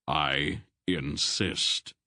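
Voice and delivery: slow, deliberate insisting; firm insistence. Acted. Old man insisting to Polgara, slow and firm. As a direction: lay it down slowly and firmly.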